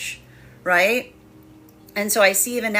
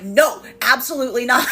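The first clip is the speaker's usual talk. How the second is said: laughing mock protest; 4 semitones higher, 4 dB louder than usual. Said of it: "looking towards the universe and being like".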